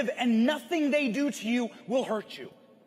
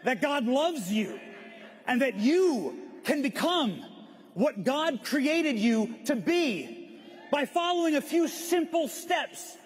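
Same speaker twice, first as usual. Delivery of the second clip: rousing speech. Shown as a demonstration. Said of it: "That's the speech I wish I could have given".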